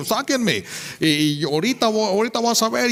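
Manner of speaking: high mock yell at the guards; imitating a brawling inmate; retold yelling. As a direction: shout it up high, itching to fight. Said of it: "le gritaba".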